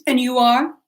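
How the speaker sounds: put-on offhand question in an LA accent; Anglo Los Angeles accent. Hostess demands a guest's name, Anglo LA accent. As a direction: ask it as an Anglo LA socialite. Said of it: "in her Anglo Los Angeles accent".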